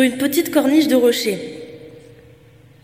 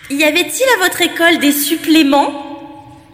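slightly worried; 6 semitones higher, 7 dB louder than usual. Acted. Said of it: "d'une voix qui trahissait une légère inquiétude".

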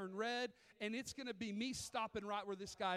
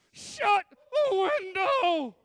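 much higher, very loud, slow frightened cry through the teeth; panicked clenched-teeth cry; 8 semitones higher, 17 dB louder, much slower than usual. Retold or imitated. Mother begging her son to close the window, frightened cry. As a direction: squeeze out a terrified plea, stretching every word. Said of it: "with clenched teeth goes".

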